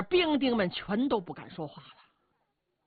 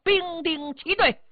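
drawn-out order to the troops; military command; 5 semitones higher than usual. Acted. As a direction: call the soldiers to attention. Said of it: "立刻传下命令".

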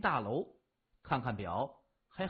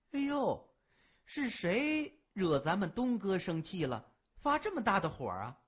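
a lightly voiced coy girl, teasing with a giggle; coy sweet voice. Older girl teasing Dongge on the phone, coy and sweet. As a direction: purr it sweetly, with a teasing laugh. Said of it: "电话另一边传来娇滴滴的声音".

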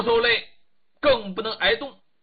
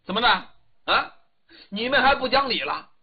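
raised, indignant shouting; loud quarrel; 2 semitones higher, 4 dB louder than usual. Acted. Di Jinghui scolds the crowd over the brazier, loud quarrel. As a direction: call them out loudly for being unfair. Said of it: "嗓门挺高，在那里嚷人呢".

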